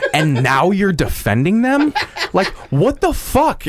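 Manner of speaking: replaying his outraged comeback in the fight, half laughing; incredulous retold protest. Retold argument over a TV show.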